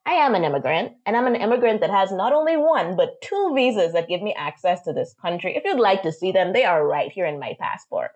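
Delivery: firm, mildly indignant comeback; retold defiance. Immigrant driver offering her visas to an officer, defiant. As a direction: stand your ground with the officer. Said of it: "this is the type of energy that I was carrying".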